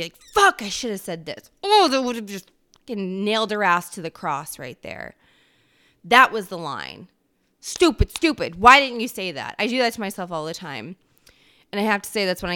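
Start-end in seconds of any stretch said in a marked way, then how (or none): 0.3-9.5 louder, fired-up self-reproach; replaying an argument. Vlogger replaying an argument hours later, fired up. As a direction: kick yourself over the missed comeback. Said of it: "reliving an argument".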